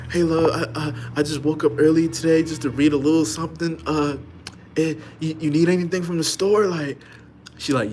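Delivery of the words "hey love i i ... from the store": eager call out. Retold or imitated. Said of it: "he yelling out".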